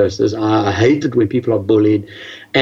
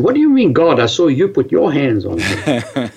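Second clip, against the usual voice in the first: incredulous; 3 semitones higher than usual. Retold or imitated. Challenging pastor in disbelief.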